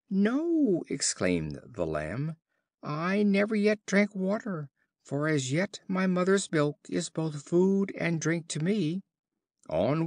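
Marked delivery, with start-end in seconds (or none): 0.1-9.0 much higher, timid little lamb voice; a small lamb begging politely; the lamb denies the wolf's charge, pleading. A narrator's reading. Lamb answers the wolf.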